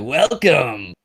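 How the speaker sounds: imitating a German-accented shout, toned down; imitated German welcome. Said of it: "What was it, Dara? He's like".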